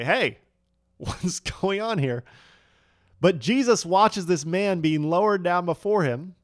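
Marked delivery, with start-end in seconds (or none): 0.0-2.2 amused hey. Pretend. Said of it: "I would say".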